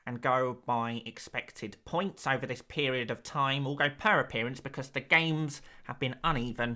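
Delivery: a hint of a dry stats presenter voice; lightly put-on nerdy stats voice; statistics voice. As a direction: deliver the numbers like a pretend data analyst. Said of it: "you reckon I could do a whole stream talking like that".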